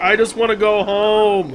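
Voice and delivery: mock weary cop, drawn out; Will Smith. Mimicking the cop who only wants out, mock fed-up complaint. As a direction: imitate a reluctant cop, stretching the words slowly. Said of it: "and Will Smith's like".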